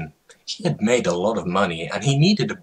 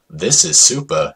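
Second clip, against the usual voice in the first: small horse voice; 3 semitones lower, 4 dB louder than usual. Acted. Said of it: "said the small horse".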